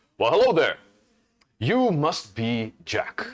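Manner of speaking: calling out loudly, as across a distance. Voicing a bombastic spellcaster calling out to jack from afar: shouting a greeting. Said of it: "he almost begins to shout at you".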